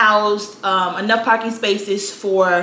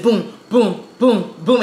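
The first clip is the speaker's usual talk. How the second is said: club beat boom; slower than usual. Shown as a demonstration. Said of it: "You hear the music".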